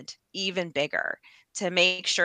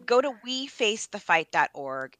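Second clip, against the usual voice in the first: bright playful pitch with a higher, louder woohoo; mock salesperson kicking off a plug; sales voice; 4 semitones higher, 5 dB louder than usual. Guest plugging the website to viewers, playful sales voice. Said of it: "I'll put on my sales voice".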